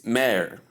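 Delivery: mayor as one syllable, MAIR; mayor as M plus "air"; standard pronunciation. Shown as a demonstration. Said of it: "but the pronunciation is mayor".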